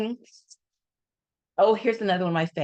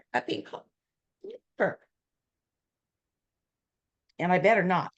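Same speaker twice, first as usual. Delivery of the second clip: Mary Kay's mock warning; faster than usual. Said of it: "That's exactly how she did it".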